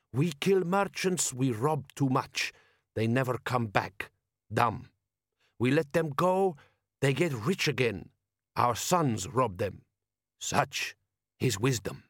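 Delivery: slow, deliberate desert chieftain voice; a bandit chief speaking slowly in a foreign tongue; Jabbar's voice. Acted. Bandit chief lecturing Vimes on robbery, slow and deliberate.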